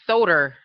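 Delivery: "Soder", drawn out with an R on the end; imitated mispronunciation. Retelling Mimi on a reality show, imitated mispronunciation. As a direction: quote her "Soder" with a hard final R. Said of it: "She was like".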